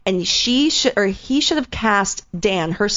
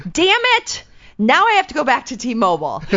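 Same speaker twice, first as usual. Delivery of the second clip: pissed outburst; 6 semitones higher than usual. Retold or imitated. Mom cursing over her phone bill, in a mock furious outburst. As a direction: spit out the frustration, mock-furious. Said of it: "she was so pissed".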